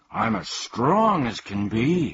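a hammed-up mighty roar; roaring boast. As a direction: bellow it like a strongman. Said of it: "he roared".

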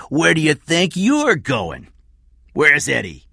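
high, loud, slow challenge; menacing Cy. Acted. Cy catches Kathy escaping, menacing.

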